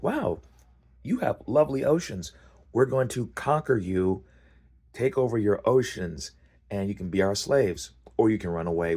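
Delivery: high, cheery alien invader voice; mock-friendly conqueror gloating; breezy conqueror. Alien invaders taunting conquered race.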